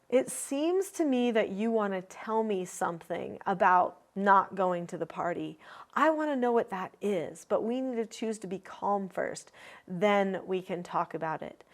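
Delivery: put-on steady, even, calm correction to a child; calm parent statement. Shown as a demonstration. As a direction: set the limit calmly and kindly. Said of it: "the most classic things that I would say".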